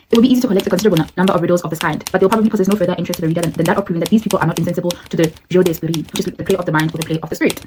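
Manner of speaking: put-on rushed read-aloud of an old text, fast; fast book reading. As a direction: rattle through the quoted passage. Reads passage from the book.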